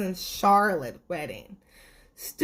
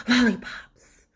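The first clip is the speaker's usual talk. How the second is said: much higher, louder shouted blurt; blurting sweet tooth; 3 semitones higher, 3 dB louder than usual. Acted. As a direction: blurt it out from the back row. Tooth answers in class.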